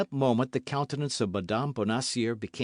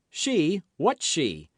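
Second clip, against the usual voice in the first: sudden high, louder startled question; alarmed question; 6 semitones higher, 4 dB louder, much slower than usual. A narrator's reading. D'Artagnan startled by Constance's words, alarmed. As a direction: snap up in alarm.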